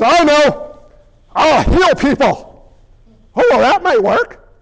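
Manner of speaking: acting as Jesus. Jesus voiced in a staff meeting.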